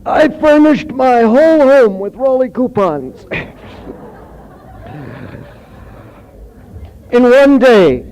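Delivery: high, loud mock testimonial; cigarette commercial spokesperson. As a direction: belt it out high like a hammed-up ad smoker. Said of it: "comes on and goes like this".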